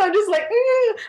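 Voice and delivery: high-pitched uneasy "mm", acted out; spooked squeal. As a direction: let out a high, squirmy hum. Acting own spooked reaction.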